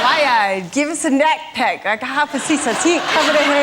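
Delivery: garbled attempt at a Geordie accent. Guest repeats what she hears for the game, garbled Geordie accent. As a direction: mimic Geordie sounds without knowing the words. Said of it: "It was Geordie".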